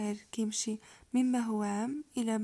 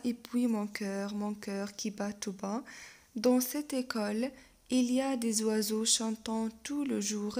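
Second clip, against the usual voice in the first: slow, stretched-out poem reading; poem recitation; much slower than usual. Acted. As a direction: recite the verse slowly and evenly. Reads poem aloud.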